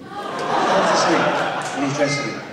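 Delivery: slow, laughing retelling of the punchline; laughing repeat. Shown as a demonstration. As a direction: savour it through laughter. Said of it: "repeated with laugh".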